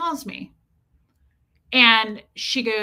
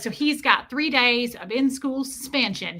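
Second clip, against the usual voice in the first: put-on slow country-accented verdict; imitated country accent; 2 semitones higher than usual. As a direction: mimic a principal's country accent, drawn out. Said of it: "this woman had a really thick accent".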